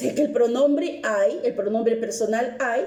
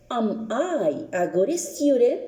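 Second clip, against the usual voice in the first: slow model question; slower than usual. Shown as a demonstration. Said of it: "Y dice".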